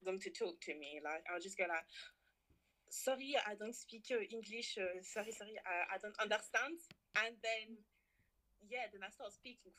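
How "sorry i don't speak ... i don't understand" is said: put-on halting English in a foreign accent. Pretends not to speak English.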